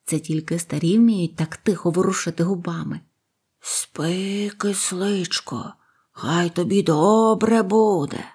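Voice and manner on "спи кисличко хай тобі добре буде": tender hush. Acted. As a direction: soothe it like a sleeping child. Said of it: "і говорив тихо-тихо".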